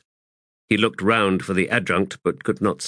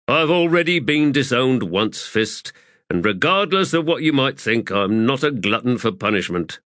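lightly voiced, higher wry soldier; Pors, defensive; 5 semitones higher than usual. Pors deflecting Faradan Sort's remark, lightly voiced and wry. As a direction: brush it off with a dry edge.

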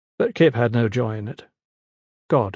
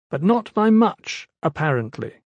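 mocking scholar; 5 semitones higher than usual. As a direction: sneer at the newcomer. Young Luxiat mocking.

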